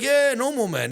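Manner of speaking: very high, loud retold dismissal; breezy dismissal. Seatmate dismisses worry about visiting a favela, breezy dismissal. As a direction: imitate an over-eager brush-off.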